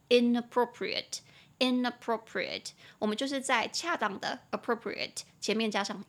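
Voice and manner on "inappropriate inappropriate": inappropriate repeated slowly and clearly; slow model word. Shown as a demonstration. Teacher modeling the opposite word slowly. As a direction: say inappropriate twice, carefully. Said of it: "它的反义词是不恰当的".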